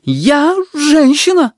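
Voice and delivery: very high, loud and slow declaration; offended nurse. A narrator's reading. Nurse defending herself, very high slow outraged voice. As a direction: draw herself up and proclaim it. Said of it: "сказала она".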